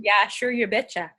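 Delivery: lightly put-on Minnesota accent; terrible Minnesota accent. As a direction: badly fake a Minnesota accent. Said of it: "that was a really terrible accent".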